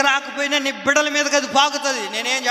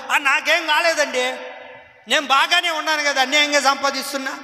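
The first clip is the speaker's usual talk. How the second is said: smug sinner; 3 semitones higher than usual. Retold or imitated. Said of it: "మనకేం కాలేదనుకుంటుంటాం".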